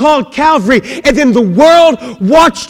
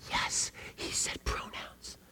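whispered mock delight of grammar nerds; English teachers; 25 dB quieter, slower than usual. Preacher imitating English teachers, whispered. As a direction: hiss it like a thrilled teacher. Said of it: "The English teachers were like".

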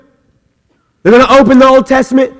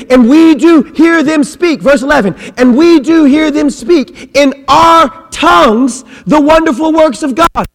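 fervent scripture reading; 6 semitones higher than usual. Acted. Preacher reading verse eleven to the church, fervent. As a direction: lift the verse up with wonder.

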